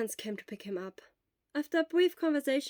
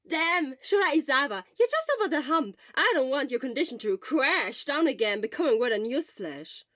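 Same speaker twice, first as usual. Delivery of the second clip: loud, high worried scolding; 4 semitones higher, 9 dB louder than usual. Acted. Friend loudly scolding Shura about his health. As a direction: tell him off out of worry.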